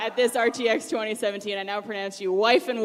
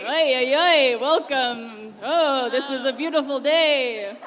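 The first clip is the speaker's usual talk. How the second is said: hammed-up officiant; 2 semitones higher, 5 dB louder, slower than usual. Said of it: "I don't know why I'm talking like this".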